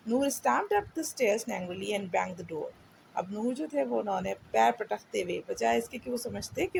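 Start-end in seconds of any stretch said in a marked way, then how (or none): 0.1-2.7 put-on slow, clear read-aloud for a child; story reading. A narrator's reading. Teacher reading a storybook to a child, slow and clear. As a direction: read each word slowly so the child can follow.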